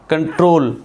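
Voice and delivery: कंट्रोल with weight on TROL, distinct final l; clear final L. Shown as a demonstration. Teacher giving a stressed-ending example, कंट्रोल as con-TROL. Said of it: "एल clear है".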